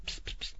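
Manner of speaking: psst hiss. A narrator's reading. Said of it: "привлёк внимание Волгина громким".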